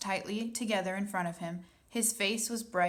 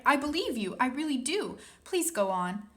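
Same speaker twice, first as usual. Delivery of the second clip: high and louder, pleading; earnest cry; 6 semitones higher, 3 dB louder than usual. A narrator's reading. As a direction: beg him to believe her. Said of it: "Sophie cried".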